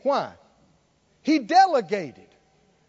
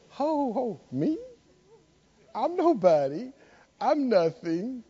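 self-doubting Christian; 3 semitones higher, slower than usual. Retold or imitated. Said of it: "look up and go".

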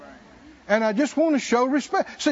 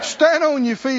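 ordinary delivery

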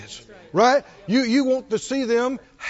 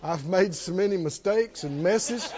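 mock self-pity; 2 semitones lower, 4 dB quieter than usual. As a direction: confess as if too unworthy, in jest. Mock child refusing a gift.

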